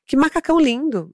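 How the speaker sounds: voz um pouco aguda de criancinha; elogio de criança imitado. Retold or imitated. Child's compliment, voiced by mother. (imitando criança pequena elogiando, mais agudo)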